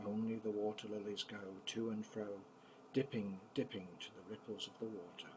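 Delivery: gentle, lilting poem recital; reading a poem to children. Acted. Grandpa reading a poem to the grandchildren, gentle and lilting. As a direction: read it like a bedtime rhyme for the grandkids.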